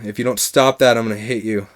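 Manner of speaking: low, soft, restrained warning; quiet threat. Retold or imitated. Warning a moaning friend on the floor, quiet threat. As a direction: threaten under your voice.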